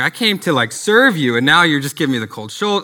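lightly acted hurt complaint; mock aggrieved complaint. Young missionary complaining to God, mildly aggrieved.

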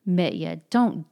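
loud, heated scolding; hot rebuke. Acted. Alyosha scolding Mitya for blaming her, heated cry. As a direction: rebuke him hotly, leaning on the words. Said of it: "Alyosha cried hotly".

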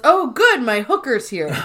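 mock delighted greeting. Michael opening the door to Pam, mock delight. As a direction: greet with playful delight, laugh creeping in.

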